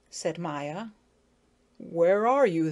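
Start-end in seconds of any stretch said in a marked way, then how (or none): 1.8-2.7 calling out. Acted. Bobby calling up.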